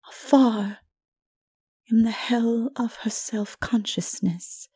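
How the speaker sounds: a prophetess explaining a torment; solemn Mara. A narrator's reading. Mara explains the princess's torment to the narrator, solemn and hushed.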